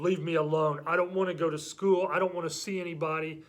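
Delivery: mildly grumpy protest; mad, pouting kid. Acted. Child refusing to go to school, mildly mad. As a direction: act out a sulking child. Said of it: "They get mad".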